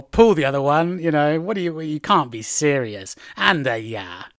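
incredulous scoff, slowing down; not buying it for a moment; disbelieving. Shown as a demonstration. Hearing something that can't be serious, disbelieving. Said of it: "when you want to express disbelief".

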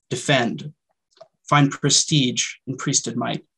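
measured poetry reading with deliberate pauses; poem reading. Acted. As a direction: read your poem line by line, letting each image land. Reads own poem aloud.

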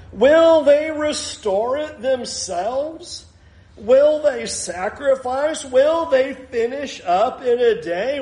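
mock the builders slowly, a rising sneer on every will; enemy sneering at the builders in front of his army, slow mocking taunt; Sanballat jeering. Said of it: "here's what he says".

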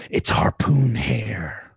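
slow hushed reveal; dramatic whisper. Acted. Game master revealing the villain, slow whisper. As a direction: breathe the name like a secret.

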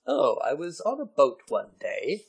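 lightly mocked monocled-gentleman voice; a slow, leisurely hint of old-world gentleman; bemonicled gentleman. Mimicking the article's monocled author, mock-genteel gentleman. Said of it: "it's just so bemonicled".

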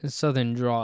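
"draw" ending on an open vowel; draw without L. Shown as a demonstration. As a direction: say "draw", spelled D R A W. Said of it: "like D R A W".

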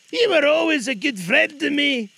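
put-on high loud nervous old man; frightened Scrooge. Scrooge answering the ghost, afraid. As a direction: blurt it out in fear.

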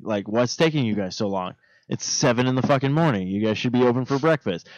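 low, soft grumbling complaint; retold impatient grumble. Customer waiting at the drive-through, retold low grumble. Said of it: "going like".

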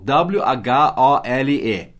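each letter spelled slowly; slow spelling. Shown as a demonstration. Teacher spells the word for students, slow and clear.

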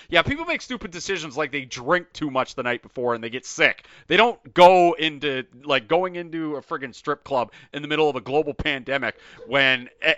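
emphatic, incredulous venting; exasperated rant. Real, not acted. Host venting about a player's strip club visit, exasperated rant. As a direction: rant it, punching the key words. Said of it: "Sorry, rant over".

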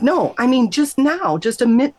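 high, eager insisting; urgent insistence. Retold or imitated. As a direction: make her understand, right now. Insisting to the nurse.

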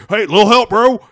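loud, high surfer bro; dude bro voice. Acted. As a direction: shout it like a hyped bro. Aquaman voiced in film recap.

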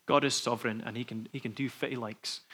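imitated Aberdonian accent, lightly done. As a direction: quote him with a touch of Aberdeen. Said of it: "in his Aberdonian accent".

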